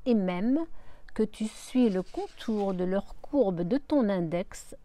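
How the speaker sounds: slowly detaching every syllable. Acted. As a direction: spell out each syllable slowly. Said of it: "lentement en détachant chaque syllabe". (lentement, en détachant chaque syllabe)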